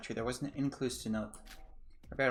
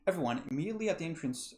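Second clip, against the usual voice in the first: game host; 2 semitones higher than usual. Acted. Host sends everyone to the trial grounds, playful announcement. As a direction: announce it playfully, with a teasing little chuckle.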